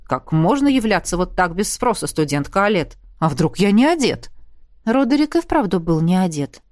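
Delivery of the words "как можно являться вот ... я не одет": lightly voiced, playfully stern teacher; mock stern. Roderick teasing his student, a hint of mock sternness. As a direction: pretend to scold her, half joking. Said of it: "произнёс нарочито суровым голосом".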